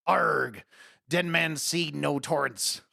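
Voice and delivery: slow, lightly voiced pirate growl; a hint of hammy buccaneer; pirate motto voice. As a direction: drag out a mock pirate motto. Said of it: "you gotta talk like this".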